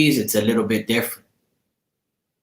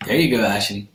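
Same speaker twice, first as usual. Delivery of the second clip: whisper; 3 semitones lower than usual. Real, not acted. Greeting viewer Ashley in a real whisper. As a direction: breathe it to the viewer as a secret.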